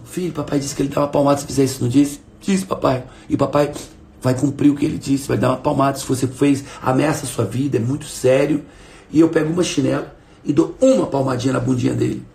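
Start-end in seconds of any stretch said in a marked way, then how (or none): 0.0-8.6 a hint of a gentle, firm father; lightly voiced calm father speaking to his son; calm, without anger. Shown as a demonstration. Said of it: "E fiz isso sem ódio".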